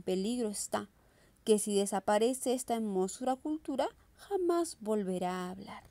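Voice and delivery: declaimed verse with pauses between phrases; poem recitation. Acted. Teacher recites a poem to her students, declamatory verse reading. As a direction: recite it line by line, phrase endings lifted and dropped.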